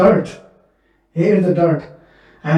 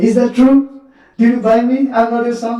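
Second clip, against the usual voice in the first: put-on high, pleading child's question, louder; innocent child; 5 semitones higher, 3 dB louder than usual. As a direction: ask like a hurt little boy. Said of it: "like the innocent child".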